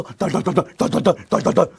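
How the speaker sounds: stuttering shiver words; mimed frightened shaking; acted trembling. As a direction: chatter the syllables like quaking with fear. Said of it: "형들은 더 무서워서".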